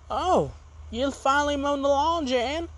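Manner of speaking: a hint of an impressed woman; girlfriend's voice. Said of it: "she's like".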